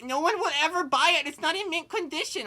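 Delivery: hammed-up crying over his wet car; mock sobbing whine. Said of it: "Chester's sobbing over his car".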